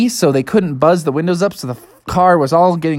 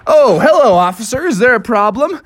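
higher, bouncy feigned innocence; innocent dad; 4 semitones higher than usual. Acted. Dad greets the officer beside felled tree, innocent. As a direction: greet the law as if nothing happened.

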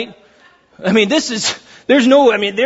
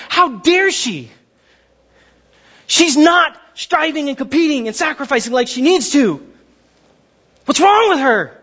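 indignant; 4 semitones higher than usual. Acted. Martha acted, indignant at Mary.

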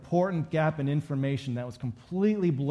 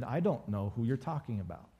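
softer, understated brush-off; dismissive denial; 3 semitones lower, 5 dB quieter than usual. Retold or imitated. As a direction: lightly act a low-key denial. Voicing Peter's first denial.

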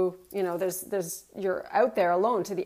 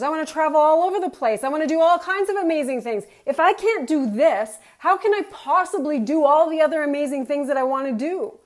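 higher, louder and fast, building with eagerness; rising resolve; 5 semitones higher, 4 dB louder, faster than usual. Retold or imitated. Her inner thought on the mountain, mildly surging with eagerness. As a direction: let the resolve surge up. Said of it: "The thought was".

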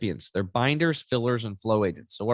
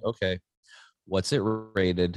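suspicious mom; 4 semitones lower, slower than usual. Retold or imitated. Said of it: "And you're like".

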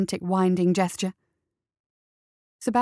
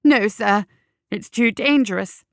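raised-voice urgent warning; insistent mock-sincere caution; put-on earnestness; 4 dB louder than usual. A narrator's reading. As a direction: plead earnestly to hold him back. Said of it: "putting on his best earnest face".

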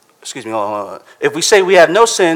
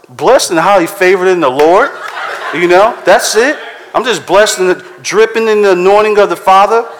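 laughing, loud mock holy answer; mock pious churchgoer; 4 semitones higher, 4 dB louder than usual. Preacher mocking churchgoers' fake piety, laughing and loud. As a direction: ham up the fake blessed reply. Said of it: "You know, like".

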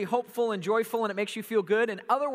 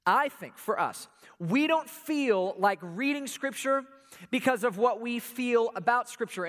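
slow repeat; 2 semitones higher than usual. Shown as a demonstration. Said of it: "Let me say that again".

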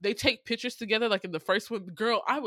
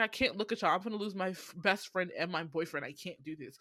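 put-on sweet girl; 3 semitones lower, 6 dB quieter than usual. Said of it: "The first girl was so sweet".

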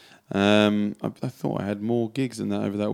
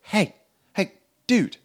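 mock cowboy greeting; 9 semitones higher than usual. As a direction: call it out like a country singer. Imitating a tribute act greeting.

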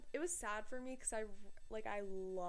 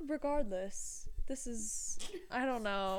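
posh oxford professor; slower than usual. Retold or imitated. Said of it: "I'm like".

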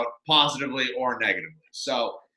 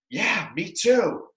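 slow, higher, stretched noncommittal reply; exaggerated vague agreement; 4 semitones higher, slower than usual. He dodges her I love you, exaggeratedly vague. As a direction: draw it out, agreeing without meaning it. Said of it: "a nice vagary out there".

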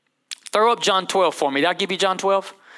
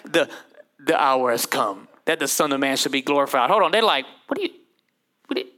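exasperated disciple; faster than usual. Retold or imitated. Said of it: "I'm like".

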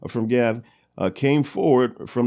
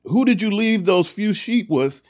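angry; 5 semitones higher, 3 dB louder than usual. Retold or imitated. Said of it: "he gets angry".

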